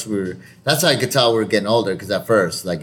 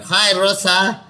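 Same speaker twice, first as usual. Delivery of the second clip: higher-pitched playful call; 7 semitones higher, slower than usual. Retold or imitated. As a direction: call out a greeting to the cleaner. Calling to wife in role-play.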